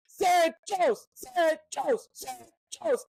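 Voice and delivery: mild mock yell of "Sarah Joe's"; retold shout. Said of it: "at the top of his lungs".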